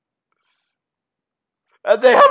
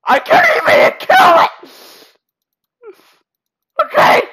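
exasperated, rattled exclamations; flustered panic; 4 semitones higher than usual. Real, not acted. Player unable to kill the bear, flustered panic. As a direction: cry out, rising into helpless panic.

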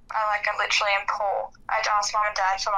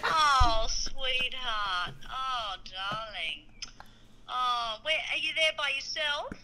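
slow, tender sympathy; gentle motherly comfort; consoling; much slower than usual. Real, not acted. Mother consoles son on the phone.

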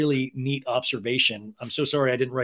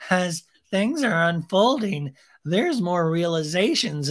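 slow detached voice; 4 semitones higher, 3 dB louder, slower than usual. Retold or imitated. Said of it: "And she's like".

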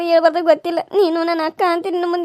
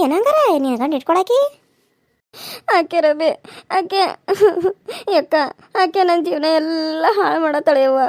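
crying as she speaks; wife telling her friend of the mistress, crying; tearful. Acted. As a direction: lament it through a sob. Wife weeps about the mistress.

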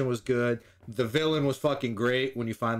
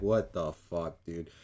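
low, slow what-the-fuck; drawn out and dumbfounded; baffled disbelief; 9 semitones lower, 5 dB quieter, slower than usual. Retold or imitated. Weasel's running reaction all movie, low slow baffled. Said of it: "he's just like".

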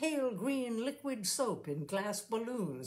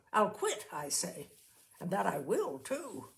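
firmly. Acted. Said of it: "added Missus Brady firmly".

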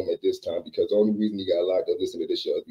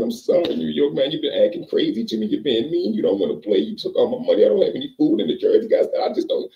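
high, louder whining excuse; whiny apology; 9 semitones higher, 5 dB louder than usual. Retold or imitated. Billy whines his excuses high and loud to New York. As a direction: plead up high like a scared kid.

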